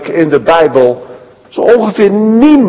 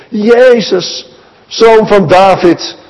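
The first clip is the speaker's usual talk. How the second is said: higher, slowed insistent cry; calling out harder; 4 semitones higher, slower than usual. Acted. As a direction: keep crying out over the crowd. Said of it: "Hij roept alleen nog maar harder". (aanhoudend hoger roepen)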